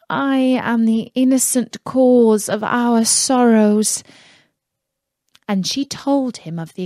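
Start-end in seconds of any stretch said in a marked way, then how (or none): 0.1-4.0 sorrowful princess. Acted. Princess laments to husband.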